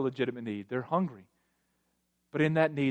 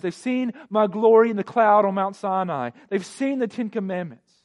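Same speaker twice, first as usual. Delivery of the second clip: impassioned preacher voicing God, higher and louder; God recounting His deeds; 8 semitones higher, 8 dB louder than usual. Preacher voices God listing blessings to the church, impassioned proclamation. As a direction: proclaim each deed forcefully, high and loud. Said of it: "what he's doing here is he's saying".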